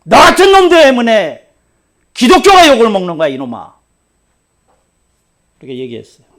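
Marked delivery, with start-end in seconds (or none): 0.1-3.8 loud, high and fast scolding; angry pastor scolding; angry rebuke. Retold or imitated. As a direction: lash out at him. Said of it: "내가 욕을 했어요".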